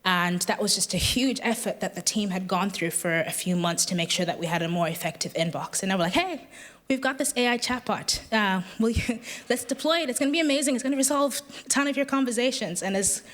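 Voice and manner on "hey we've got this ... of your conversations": higher, bubbly sales-pitch enthusiasm with a laugh; mock excitement. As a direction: oversell it like an eager colleague. Team pitching the new chatbot excitedly.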